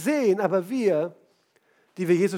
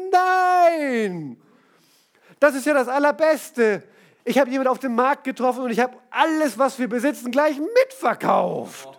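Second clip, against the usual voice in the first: begeistert schwärmend; 5 semitones higher, 4 dB louder than usual. Retold or imitated. Mann schwärmt begeistert der Frau vor.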